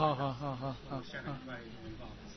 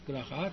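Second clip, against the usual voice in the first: 哈 rising at the end of 格拉哈; raised final sound; 2 semitones lower, 4 dB quieter than usual. Shown as a demonstration. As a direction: lift the last syllable 哈 upward. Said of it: "这个要尾音要抬高".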